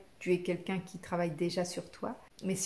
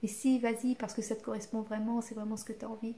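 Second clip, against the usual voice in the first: petite voix douce; 3 semitones higher, faster than usual. Shown as a demonstration. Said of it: "t'as ta petite voix qui te dit".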